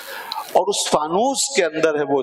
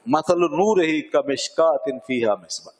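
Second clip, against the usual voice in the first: slow, measured chanting of the verse; Quranic recitation; slower than usual. Shown as a demonstration. Teacher reciting the verse to his students, slow chanted recitation. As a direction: recite it slowly, like a verse read aloud.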